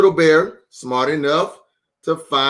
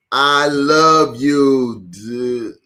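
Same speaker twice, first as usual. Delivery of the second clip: sleepy trailing off; much slower than usual. Acted. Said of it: "he didn't finish".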